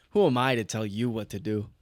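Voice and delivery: De Niro. Acted. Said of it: "like a De Niro".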